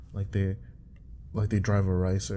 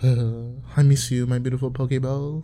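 mock longing; 3 semitones higher, 5 dB louder than usual.

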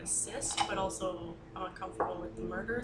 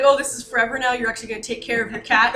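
loud dad voice; 3 semitones higher, 12 dB louder than usual. Retold or imitated. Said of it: "he specifically was like".

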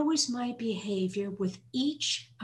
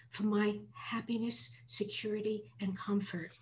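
a hushed, heartfelt prayer with breathy whispered stretches; prayer read aloud. Real, not acted. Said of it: "this is what I wrote for selfish".

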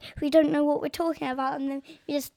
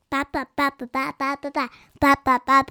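put-on baby babble; 4 dB louder than usual. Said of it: "what if she just goes".

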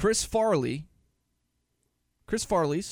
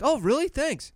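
higher-pitched, put-on pleased reaction; mock grateful surprise; 10 semitones higher than usual. Acting out his friend's reply about the gifted cigar, mock grateful surprise.

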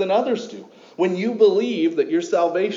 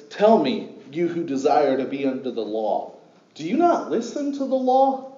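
sarcastic. Retold or imitated. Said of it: "sense a little bit of sarcasm in his voice".

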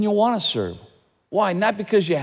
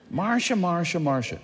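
Brady Bunch quote; 4 dB quieter than usual. Retold or imitated. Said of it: "The Brady Bunch ripped off this line".

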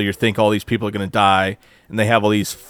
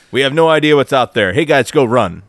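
a raised, hammed-up order to charge; mocking a reckless commander, louder; mock battle commander; 3 semitones higher, 5 dB louder than usual. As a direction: play a clueless general barking at the troops. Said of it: "It's like, what kind of strategy is that?".

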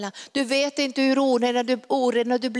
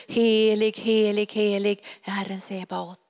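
calling out. Pretend. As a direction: proclaim it, then let it fall. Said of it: "vi kommer att ropa".

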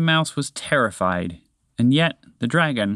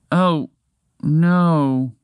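higher, sad little moose cry of dismay; 4 semitones higher, 4 dB louder than usual. Acted. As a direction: deflate as the antler falls. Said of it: "said sadly".

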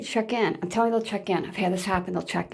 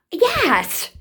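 sudden high emphatic yes; 9 semitones higher than usual. Real, not acted. Answering her own question to viewers with a high emphatic yes. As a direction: burst out with a firm yes.

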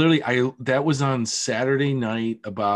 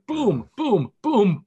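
repeated punchy booms, rising higher; imitated impact booms; 9 semitones higher, 3 dB louder, much slower than usual. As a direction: mimic a hit replaying over and over. Imitating video replayed repeatedly.

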